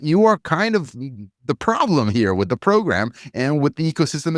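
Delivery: a podcaster berating fans, heated; angry rant. Real, not acted. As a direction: tear into the listeners. Ranting at the fans.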